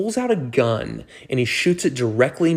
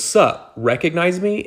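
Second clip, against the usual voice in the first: lightly voiced cocky celebrity, higher pitch; casual, higher-pitched imitation of a star introducing himself; Leonardo DiCaprio; 6 semitones higher than usual. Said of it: "And it's Leonardo DiCaprio".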